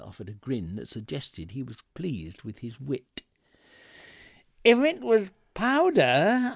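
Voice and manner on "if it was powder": slow, loud, high-pitched indignation; cold fury. A narrator's reading. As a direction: draw it out in icy outrage. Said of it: "my voice as cold as the devil's heart".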